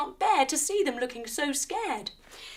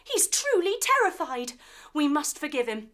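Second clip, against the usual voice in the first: urgent hero; 3 semitones higher than usual. Acted. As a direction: hold up the team heroically. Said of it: "Mike stops".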